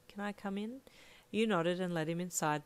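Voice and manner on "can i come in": sullen. A narrator's reading. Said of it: "he said sullenly".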